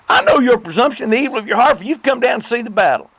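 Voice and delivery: Eliab's rebuke read high and loud, rising in anger; angry older brother. Acted. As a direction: scold like a jealous older brother. Reading scripture, Eliab's angry words.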